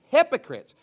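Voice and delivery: high, loud accusing cry; shouted rebuke. Acted. Preacher repeating Christ's charge to scribes and Pharisees, shouted.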